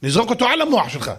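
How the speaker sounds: mock royal vow, rising and rushing; angry king's oath. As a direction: threaten your son like a furious king. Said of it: "המלך אמר".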